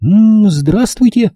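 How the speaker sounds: high, drawn-out cheery hello; lively greeting. A narrator's reading. Girl arriving greets a stranger, lively. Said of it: "сказала она живо".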